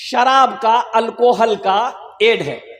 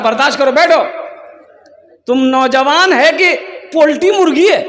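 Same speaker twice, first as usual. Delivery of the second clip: raised, higher-pitched mock telling-off; retold scolding; 6 semitones higher, 4 dB louder than usual. Preacher to restless young man at his speech, retold scolding. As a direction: scold with comic exasperation.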